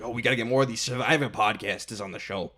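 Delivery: brash movie producer; Hollywood producer voice. Retold or imitated. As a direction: slick showbiz exec pitch. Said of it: "that is my Survive or my Hollywood producer voice".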